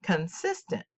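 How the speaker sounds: "Consistent" as con-SIS-tent; "Consistent" with the accent in the centre; middle-syllable stress. Shown as a demonstration. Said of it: "the center syllable is accented".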